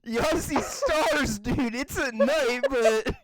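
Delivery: drawn-out mock southern echo; southern accent. Parroting a friend who sees stars, southern accent. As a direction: stretch it into a teasing southern twang. Mimics friend's line in drawl.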